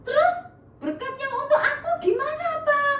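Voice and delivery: high, pleading whine; dismayed. Acted. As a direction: beg father to explain, near tears. Esau dismayed, blessing gone.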